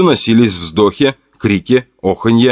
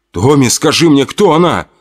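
urgent, higher pleading; being shaken; 5 semitones higher than usual. Acted. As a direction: press him for an answer. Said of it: "слегка потряс Томаса за плечи".

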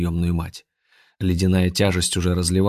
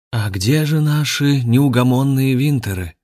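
grandmaster voice; 6 semitones higher, 4 dB louder than usual. Acted.

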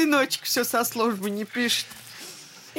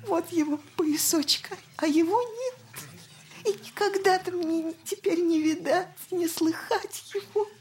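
softer, tear-choked lament; quiet weeping; 4 semitones higher, 3 dB quieter than usual. Acted. Mother mourning her little boy before the elder, softly weeping. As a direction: let the words break as the tears come. Grieving mother recalls dead son.

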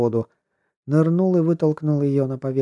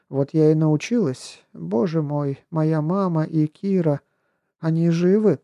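put-on young woman, worried; 5 semitones higher than usual. Marta voiced by narrator.

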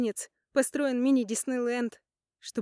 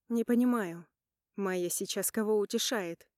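ordinary delivery

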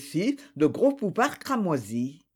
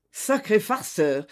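cordial; 3 semitones higher than usual. A narrator's reading. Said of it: "une main cordiale".

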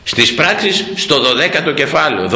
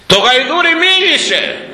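high, rising wonder; amazed announcement; 14 semitones higher than usual. Acted. Preacher tells the congregation the donkey spoke, high with awe. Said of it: "Μίλησε το γαϊδούρι".

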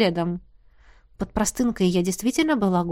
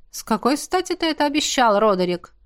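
capricious; 4 semitones higher than usual. Acted. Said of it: "капризно спросила Джемма".

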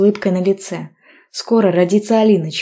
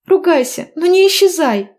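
higher, louder emotional plea; tearful plea; 12 semitones higher, 5 dB louder than usual. A narrator's reading. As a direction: beg him not to vanish. Heroine pleading emotionally.

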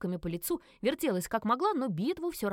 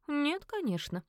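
condescending; 7 semitones higher, slower than usual. A narrator's reading. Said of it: "снисходительно улыбнулся".

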